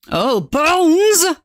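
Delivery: high, excited exclamation; delighted. Real, not acted. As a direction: exclaim it high, thrilled by the find. Delighted find of bone floor.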